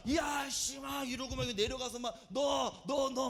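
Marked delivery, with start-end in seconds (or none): 0.1-0.8 mildly raised, bold exclamation; hammed-up confidence; confident preacher bluster. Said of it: "자신 있게 막". 2.3-3.3 bold, half-shouted calling out; punchy mock pulpit shout; confident preaching. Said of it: "막 이렇게 설교하잖아요".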